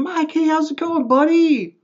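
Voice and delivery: high-pitched, chummy mock hello; fake best-friend greeting. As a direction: imitate a falsely friendly neighbor calling out loudly. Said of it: "Like I'm his best friend".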